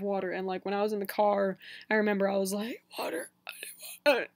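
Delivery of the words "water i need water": dry, breathless whisper; barely getting the words out; parched whisper. Retold or imitated. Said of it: "I could barely even talk".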